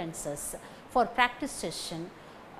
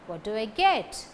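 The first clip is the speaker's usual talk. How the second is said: "What" and "get" stressed, weak "do I". Shown as a demonstration. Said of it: "What and get takes stress".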